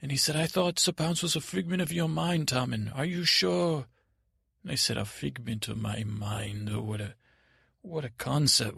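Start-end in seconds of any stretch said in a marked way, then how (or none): 0.4-3.9 higher-voiced, uneasy questioning; worried doubt. Prisoner asks Tommen about Sir Pounce, doubtful. 5.0-8.8 softer, pondering echo; musing puzzlement. Acted. Tommen puzzles over the boy's words, musing.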